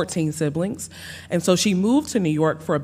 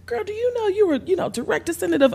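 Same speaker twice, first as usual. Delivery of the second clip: imitating friends; 3 dB quieter, faster than usual. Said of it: "other people that were like".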